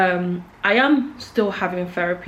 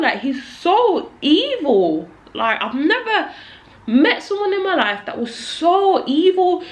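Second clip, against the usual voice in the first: slow, higher, every word hammered with anger; angry emphatic rant; 5 semitones higher, slower than usual. Real, not acted. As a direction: spell it out slowly to the abuser. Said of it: "I'm ranting because I hate this man".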